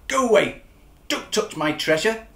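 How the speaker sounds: loud, grumpy mock growl; lobster growling. Lobster guarding his coins, lightly voiced grumpy growl. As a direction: snap at the intruder like a cranky lobster. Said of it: "the lobster growled".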